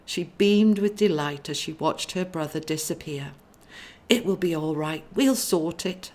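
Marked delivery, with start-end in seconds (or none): 4.1-6.1 chirpy. Acted. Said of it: "she chirped to herself".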